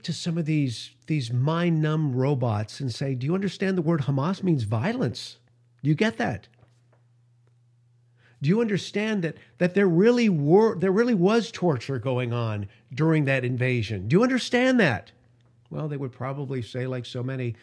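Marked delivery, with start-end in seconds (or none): 3.1-15.1 climbing higher, insistent questions; pleading indignation. Retold or imitated. Host imagining lecturing protesters, indignant and rising. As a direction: hammer home each question, rising in pitch.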